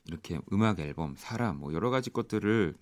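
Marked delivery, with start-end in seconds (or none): none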